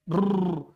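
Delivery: loud rolled "brrr"; playful loud trill of the lips or tongue; a burst of rolled r; trilled brrr noise. Pretend. Noise after calling it frightening.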